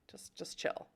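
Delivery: unvoiced whisper to herself. Real, not acted. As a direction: hush it under your breath. Hushing own hunger.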